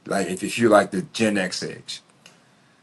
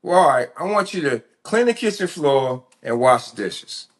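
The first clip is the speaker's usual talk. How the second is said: bargaining mom; 6 semitones higher than usual. Retold or imitated. Mom bargaining with her son.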